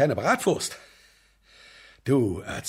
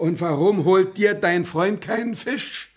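angry; 7 semitones higher, 6 dB louder than usual. Acted. Angry interrogation.

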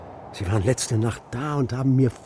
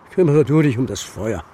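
firm order; 6 dB louder than usual. Acted. Großvater gibt knappe Anweisung.

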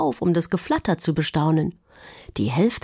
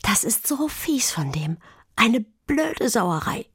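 whining; 5 semitones higher than usual. A narrator's reading. Pia sits sadly in the dirt, whining about her brother. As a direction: moan about how unfair it is. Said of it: "jammerte sie".

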